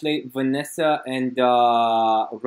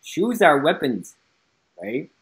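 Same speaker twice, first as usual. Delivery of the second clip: put-on slow, higher Cantonese-accented quote; 5 semitones higher, slower than usual. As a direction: imitate a Cantonese accent, slowly. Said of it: "Cantonese accent, he's like".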